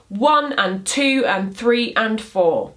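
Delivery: "one and two and three and four" counted slowly, with weight on the numbers; rhythmic counting. Shown as a demonstration. Poetry teacher counting a beat for students, slow with stressed numbers. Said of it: "For example".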